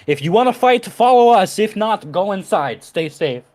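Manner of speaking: shouting to villagers. Acted. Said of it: "Boris is gonna shout over the crowd".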